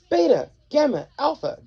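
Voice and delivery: high, loud call of names; dog shouting for his pack. A narrator's reading. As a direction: call them across the airship. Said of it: "Doug shouted".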